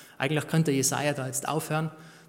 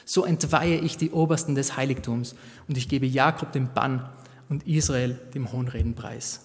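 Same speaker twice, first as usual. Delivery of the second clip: measured, solemn Bible reading; scripture reading; 3 dB louder than usual. Acted. Preacher reads the prophet's words aloud solemnly. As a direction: lay out God's words with gravity.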